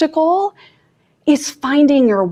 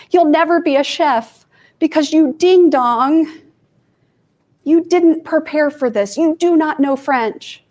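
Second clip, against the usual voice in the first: nagging inner critic; 5 semitones higher than usual. Retold or imitated. Her primitive brain scolding her, mock harsh inner critic. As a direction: nag yourself like your own harsh brain, a touch raised. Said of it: "My primitive brain's like".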